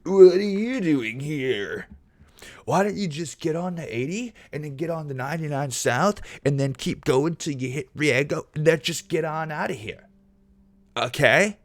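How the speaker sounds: hammed-up Valley California drawl, pushy directions; Californians SNL accent. Streamer parodies the SNL Californians sketch giving road directions, hammed-up California accent. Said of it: "the Californians S N L skit".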